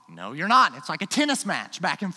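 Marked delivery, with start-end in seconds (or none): 0.1-0.7 emphatic denial. Retold or imitated. Acted back and forth dispute.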